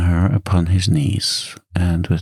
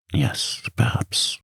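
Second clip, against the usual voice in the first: breathy sigh; 5 semitones higher, 5 dB quieter, slower than usual. Acted. Emma sighs agreement to Rodolphe.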